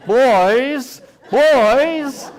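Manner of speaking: very high, loud grandmotherly call; angry grandmother. Retold or imitated. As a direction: call the children to account in a put-on high voice. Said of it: "My grandmother was an Episcopalian. She talked like that".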